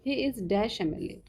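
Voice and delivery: very slow, word by word, as if dictating; dictation pace. Shown as a demonstration. Teacher dictating an example sentence to the class, very slow. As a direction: spell the sentence out slowly for students to copy.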